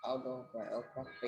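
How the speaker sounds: very soft practice attempt; barely audible rehearsal of the word; murmured to oneself. Real, not acted. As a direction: sound it out under your breath. Student rehearsing the word to herself.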